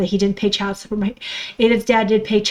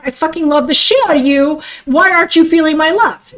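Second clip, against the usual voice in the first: imitating anger; 4 semitones higher, faster than usual. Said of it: "they're like".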